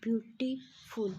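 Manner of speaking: "ब्यूटीफुल" broken into ब्यूटी and फुल with a gap; syllable split. Shown as a demonstration. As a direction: say "ब्यूटीफुल" slowly in two parts, ब्यूटी, then फुल. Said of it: "जब हम इसको pronounce".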